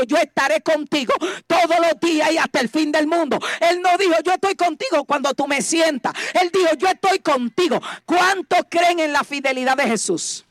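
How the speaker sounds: emphatic, fervent preaching; prédica enérgica. Real, not acted. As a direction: hammer the promise home to the congregation. (predicando con énfasis y fervor)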